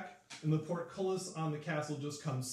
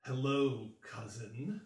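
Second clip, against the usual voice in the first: guttural growl; 3 semitones lower, slower than usual. Acted. Llewellyn greeting the Baroness he will overthrow, guttural growl. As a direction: growl it, sinking at the end. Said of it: "in a guttural growl".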